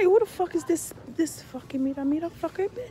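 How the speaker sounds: angry demand. Retold or imitated. Confronting boyfriend over phone.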